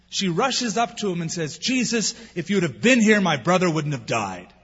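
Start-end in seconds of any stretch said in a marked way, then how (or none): 1.6-4.5 grieving reproach. Retold or imitated. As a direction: confront him in raw grief. Grieving Martha confronts Jesus.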